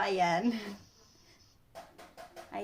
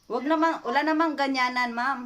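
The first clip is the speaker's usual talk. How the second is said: mock-stern complaint; 4 semitones higher, 5 dB louder than usual. Prank caller scolding ma'am over a supposed debt, mock-indignant. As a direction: pretend debt collector, raised pitch.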